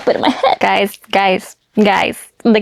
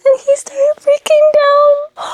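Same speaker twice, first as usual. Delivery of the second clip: tearful high voice; slower than usual. Real, not acted. Emotional while reading the scene.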